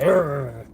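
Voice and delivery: low imitated grumble of annoyance; huffy growl. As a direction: growl like a cop in a huff. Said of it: "He's in a huff".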